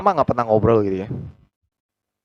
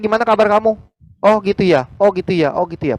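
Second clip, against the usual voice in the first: mock listener; 7 semitones higher, 3 dB louder than usual. Mocking a careless listener.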